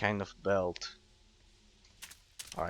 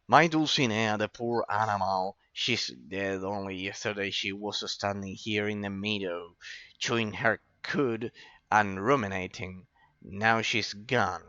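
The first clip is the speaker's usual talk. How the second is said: voicing grieving farmer. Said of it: "I'll have to do all the reading myself".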